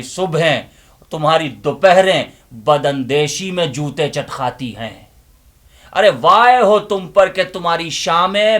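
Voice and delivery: loud, impassioned recitation with long pauses; dramatic declamation. Acted. Inner voice confronting the listeners with a loud, impassioned declamation. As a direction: preach it like a stage monologue.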